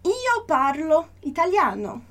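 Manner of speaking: slow, even model reading; slow teacher read; slow model phrase. Shown as a demonstration. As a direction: read it slowly as one phrase for the student. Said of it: "Então, olha só".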